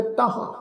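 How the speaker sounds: ਤਾਹਾਂ ending in a long aa. Shown as a demonstration. Teacher citing modern scholars, ਤਾਹਾਂ with long aa. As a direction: say ਤਾਹਾਂ as "ta-haan". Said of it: "ਕੰਨਾ ਲਗਾ ਕੇ".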